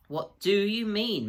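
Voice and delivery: panting. A narrator's reading. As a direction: gasp the question while scrambling uphill. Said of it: "panted Peter".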